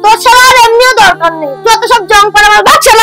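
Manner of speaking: furious wife walking out. Acted. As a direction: storm off to her father's home.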